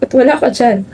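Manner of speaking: tearful, halting grief at a friend's coffin; crying. Acted. Grazel grieves her best friend in her sleep, tearful. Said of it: "Grazel, you're crying".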